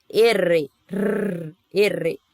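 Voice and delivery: "R" com a língua tremendo forte, erre vibrante; faça vibrar a língua no "R". Shown as a demonstration. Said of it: "faz tremer a língua". (R espanhol bem vibrado)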